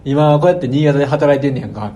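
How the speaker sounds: lightly voiced pushy Kansai shop owner; 関西弁でマウントを取る店主. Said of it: "関西弁マウント取ってきて". (馴れ馴れしい関西弁の店主風)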